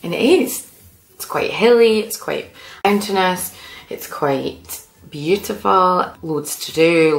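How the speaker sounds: high-pitched gushing list; lightly gushing enthusiasm; excited. Acted. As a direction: rave about it, lifting high. Excited list about Tasmania.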